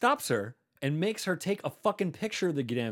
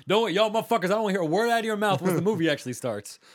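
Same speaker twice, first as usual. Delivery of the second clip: mock loud warning; 6 semitones higher, 6 dB louder than usual. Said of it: "turns to his friends and goes".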